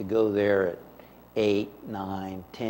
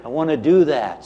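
eager laughing; 4 semitones higher, 6 dB louder than usual. Retold or imitated. Eager boy's thought, laughing.

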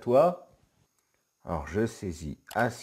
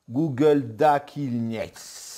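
a hint of a Klingon accent, slow and louder; 8 dB louder, much slower than usual. Youtuber reading the Klingon page, mock Klingon accent. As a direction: read "Google Dakilnieks" slowly in a mock Klingon accent. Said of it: "je sais pas si je le fais bien avec l'accent".

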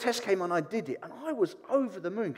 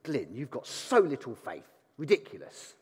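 mock exasperated telling-off, stress on little; scornful scolding; 4 semitones lower than usual. Shown as a demonstration. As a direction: scold him as if his doubt were ridiculous. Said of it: "I don't imagine it being the kind of tone".

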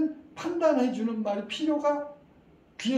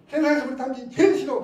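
put-on louder, higher, fast childish outburst through laughter; laughing mock tantrum; 6 semitones higher, 10 dB louder, faster than usual. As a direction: play the cross kid half-laughing. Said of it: "자, 이렇게".

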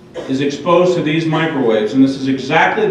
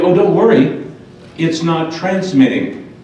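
imitating a breezy installer's assurance, raised pitch; mock reassurance; 3 semitones higher, slower than usual. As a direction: play the installer brushing off worries. Mimics installers' glib reassurance.

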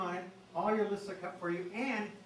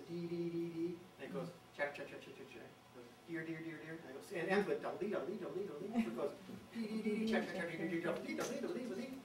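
dee notes chanted, checks clipped soft; lightly mimicked kinglet song; kinglet song imitation; 5 dB quieter than usual. Shown as a demonstration. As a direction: call out the song parts like a bird. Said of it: "breaks down into these three or four parts".

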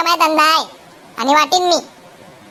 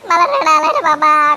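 laughing; 2 semitones lower, slower than usual. Acted. Worker laughs while confessing he was scared. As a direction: laugh through the line.

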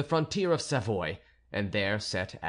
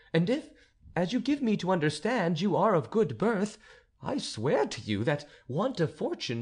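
raised, insistent questioning; urgent countess; 8 semitones higher than usual. Acted. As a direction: demand he tell her who he is. Countess demands the truth.

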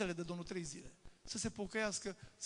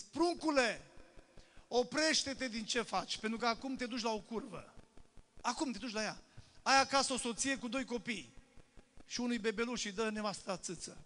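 higher, louder urgent plea; a sister crying out to a young man to stop; pleading call; 3 semitones higher, 4 dB louder than usual. Retold or imitated. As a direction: beg the young man to stop, rising and pressing. Plângând.

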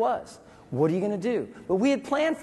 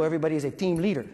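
laughing; 3 semitones lower, much faster than usual. Retold or imitated. Joking quote.

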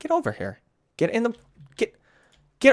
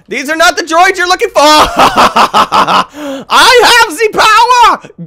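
Star Wars jedi voice; 9 semitones higher, 6 dB louder than usual. Pretend. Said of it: "He's a stormtrooper".

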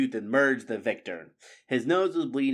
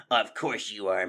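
silky sinister rat. Acted. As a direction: purr it like a hidden threat. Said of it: "The huge tail snaked out and caressed the fox".

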